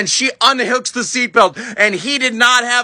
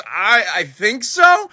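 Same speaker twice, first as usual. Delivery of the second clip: slow, unsure stammer; dazed reply; much slower than usual. Retold or imitated. Dazed uncle hanging upside down, unsure. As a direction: draw it out as if dazed.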